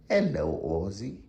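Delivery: lightly put-on Australian greeting; brief mock Aussie accent, lifting at the end. Owner demonstrates greeting the dog, mock Australian accent. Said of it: "represent an Australian accent".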